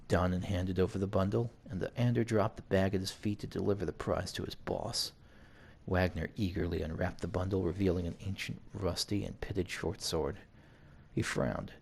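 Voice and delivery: measured read-aloud narration; story narration. A narrator's reading. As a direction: narrate it evenly like an audiobook. Reads game story aloud.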